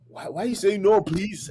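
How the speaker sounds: imitated bewildered question; puzzled disbelief. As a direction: act out a baffled host demanding an explanation. Host questions the baffling answer.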